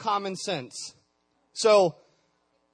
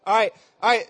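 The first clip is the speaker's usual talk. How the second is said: calling out; 9 dB louder, faster than usual. Real, not acted. Calling noisy students to attention.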